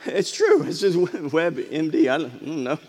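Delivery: laughing through the words. Real, not acted. Preacher laughs at his WebMD statistic, laughing. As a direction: chuckle at his own claim.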